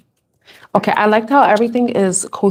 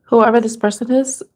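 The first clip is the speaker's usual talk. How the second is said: getting emotional; 3 semitones higher than usual. Real, not acted. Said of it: "I'm getting emotional right now".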